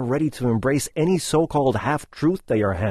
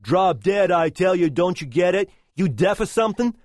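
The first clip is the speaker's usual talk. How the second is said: lightly voiced rude young guy, a bit higher; mock-dismissive snapping at his girlfriend; rude boyfriend; 4 semitones higher than usual. Boyfriend brushing off his girlfriend at a cafe, mock-rude. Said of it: "The guy replies".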